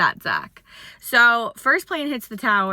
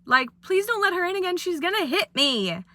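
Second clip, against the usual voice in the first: mock scared plea; 6 semitones higher than usual. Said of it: "I was like".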